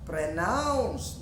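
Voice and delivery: teacher modelling Pronounce; model word. Shown as a demonstration. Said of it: "how to pronounce".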